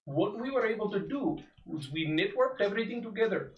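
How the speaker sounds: lightly voiced old sage; a hint of a wise old mentor; old man voice. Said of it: "Indian Deckard Cain".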